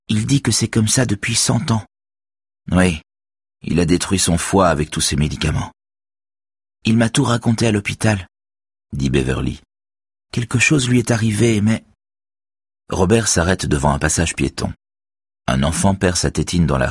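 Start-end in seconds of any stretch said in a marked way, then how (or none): 0.1-11.8 put-on higher girl's voice, earnest and firm; teen girl voice. A narrator's reading. Girl defends Axel to Robert, higher earnest voice. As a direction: voice the young girl defending him. Beverly's voice.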